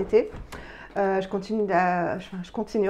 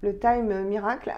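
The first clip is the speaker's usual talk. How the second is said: English accent. Real, not acted. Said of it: "j'ai horreur de prendre un accent anglais".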